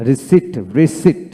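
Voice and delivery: "রিসিট" said slowly as "ri-seet", p silent; model pronunciation of receipt. Shown as a demonstration. Teacher shows learners how it is pronounced, slow model. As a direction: say "রিসিট" slowly in two clear syllables. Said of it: "এভাবে উচ্চারিত হবে".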